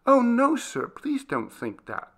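earnest servant's plea. Acted. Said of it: "very earnestly".

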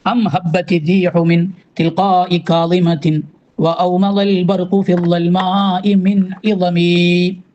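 slow, measured chanting of the Arabic verse; slow devotional verse recital; poem recitation. Acted. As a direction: draw out each word like reciting a qasida. Recites second Burda verse.

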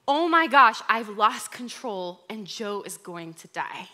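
loud mock panic on Oh my gosh, then dropping; mock full panic. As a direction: voice the brain spiralling to the worst. Brain's escalating panic.

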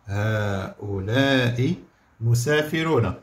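هؤلاء drawn out slowly, rising; slow dictation. Shown as a demonstration. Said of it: "شنو نقولوا؟".

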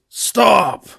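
Shadow. Acted. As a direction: burst in shouting to break it up. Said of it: "Shadow the Hedgehog runs on screen and goes".

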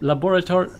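"laboratory" sounded out carefully, syllable by syllable; halting attempt. Real, not acted. Asking co-player how to say "laboratory", sounded out haltingly. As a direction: try "laboratory" as an unsure question. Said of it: "How do you say lab".

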